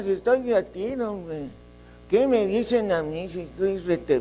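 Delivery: whiny lament from a poor, self-pitying man; mock pitiful complaining; self-pitying complainer. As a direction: moan about being broke. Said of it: "tú aquí en la tierra dando lástimas".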